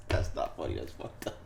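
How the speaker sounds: airy words squeezed out mid-laugh; can barely get it out for laughing; breathless laughing. Real, not acted. Laughing to his co-host that it's not funny.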